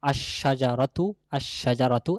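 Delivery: "আশ-শাজারাতু" with a long sh, no l; lam merged into shin. Shown as a demonstration. Teacher naming the definite tree, "আশ-শাজারাতু" with lam silent. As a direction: hold the sh in "আশ-শাজারাতু". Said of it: "লামটা শিনের সাথে মিশে গিয়ে".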